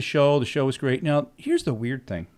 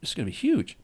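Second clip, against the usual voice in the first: whisper-close amazement at the mixes; a lightly voiced hushed "wow"; hushed awe; 3 semitones higher, 7 dB quieter than usual. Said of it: "I was like".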